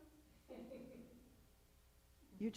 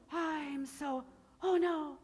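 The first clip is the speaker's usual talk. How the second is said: mock sighing fright; 8 semitones higher, slower than usual. Shown as a demonstration. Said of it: "It's the same as sighing".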